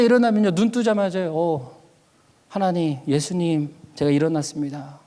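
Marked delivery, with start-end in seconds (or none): 1.3-5.0 low, softened greeting to God; tender waking prayer. Retold or imitated. Preacher greeting Jesus on waking, tender prayer. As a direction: murmur a gentle good morning, eyes barely open.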